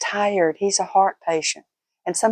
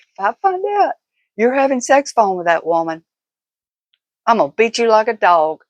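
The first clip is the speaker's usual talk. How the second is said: threat half-swallowed by laughter, starting higher; can barely get the threat out for giggling; laughing through it; 3 semitones higher, 4 dB louder than usual. Retold or imitated. Retelling her teasing threat to viewers, laughing through it.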